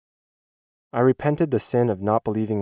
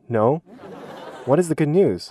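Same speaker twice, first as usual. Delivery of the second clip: lightly acted eager student, higher on the question; brightened student's reply; 5 semitones higher than usual. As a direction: imitate a relieved pupil, pitch lifting into curiosity. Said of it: "His expression brightens and he answers".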